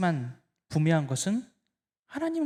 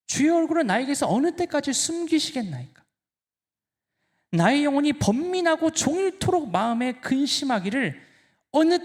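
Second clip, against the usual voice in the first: indignant lament; 4 semitones higher than usual. Acted. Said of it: "잔뜩 화가 났거든요".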